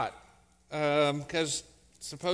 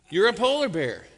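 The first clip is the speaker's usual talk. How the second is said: fed up, louder "You're a polar bear"; mock exasperation, end it firmly; frustrated dad; 2 semitones higher, 6 dB louder than usual. Father bear, fed up, insists to his cub, louder. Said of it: "getting frustrated now".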